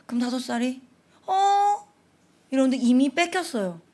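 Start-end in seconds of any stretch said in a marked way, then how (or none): 1.2-1.9 high, loud startled little "어?"; a small child caught off guard; confused "어?". Retold or imitated. Little kid losing his toy, high startled.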